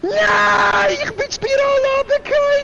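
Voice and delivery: high wailing yell of defeat; anguished shout. Real, not acted. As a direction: cry out in dismay. Player falls off track. (verzweifelter Schrei)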